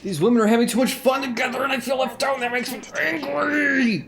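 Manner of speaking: mock angry man. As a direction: play a jealous grump whining in mock outrage. Mock angry man reacting to scene.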